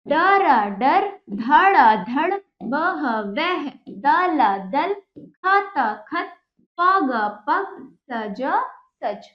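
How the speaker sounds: slow, drawn-out syllables, then the joined word; sing-song sound-it-out chant for pupils; reading drill. Shown as a demonstration. (धीमे, खींचकर पढ़ाने का लहजा)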